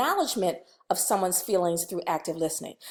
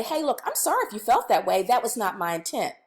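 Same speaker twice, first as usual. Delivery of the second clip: calm, sorry but firm; acknowledging apology; 3 semitones lower than usual. Shown as a demonstration. Trainer models a calm apology to an upset student. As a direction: own the feeling, keep it gentle. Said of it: "what we've done in that example".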